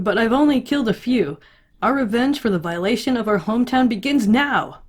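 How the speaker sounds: rising, rousing war cry; fervent boasting. Retold or imitated. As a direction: declaim it like a zealous young soldier. Character keeps going with fierce boast.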